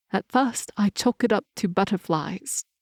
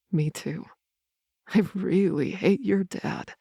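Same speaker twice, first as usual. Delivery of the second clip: grumbling. Acted. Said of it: "Lysar grumbles".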